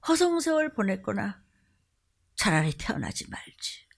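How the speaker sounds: lightly voiced sorrowful God, sinking to a whisper; rebuke, then pity in a hush; God rebuking. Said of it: "목사는 뭐하고".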